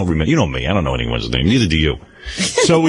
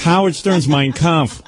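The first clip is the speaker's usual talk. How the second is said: grand, slow, word by word; slow title announcement; 3 semitones higher, much slower than usual. Acted. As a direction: present the title like a marquee.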